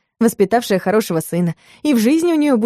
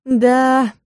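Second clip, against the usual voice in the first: ordinary delivery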